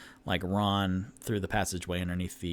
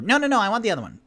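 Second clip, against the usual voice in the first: whiny demand; 10 semitones higher, 8 dB louder, much faster than usual. Acted. Floon voiced demanding the other one.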